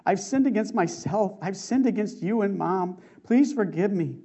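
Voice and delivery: anguish. Retold or imitated. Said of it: "pouring out in anguish".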